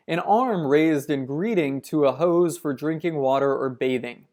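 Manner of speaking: measured documentary read; reading aloud. Acted. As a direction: read it like a nature narration. Reads a nature passage aloud.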